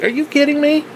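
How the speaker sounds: very high, exasperated disbelief; high-pitched are-you-kidding-me; incredulous outrage. Retold or imitated. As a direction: rant in shocked disbelief. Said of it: "And I'm like".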